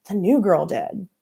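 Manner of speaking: put-on slow Dominican accent blaming. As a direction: shift the blame in a Dominican accent. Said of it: "in her thick Dominican accent".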